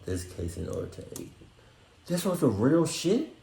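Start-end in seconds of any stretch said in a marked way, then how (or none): 2.1-3.3 slow, high disbelief; slow high incredulity; stunned question. Real, not acted. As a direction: draw it out in shock. Realizing the story was real.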